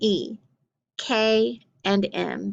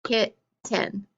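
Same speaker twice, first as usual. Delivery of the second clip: clapped syllables; 4 dB quieter than usual. Shown as a demonstration. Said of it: "let's try it together".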